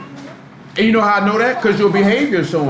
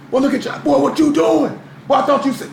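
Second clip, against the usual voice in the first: mock incredulous; 9 semitones higher than usual. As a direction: act out catching a friend red-handed. Acted street confrontation over smoking.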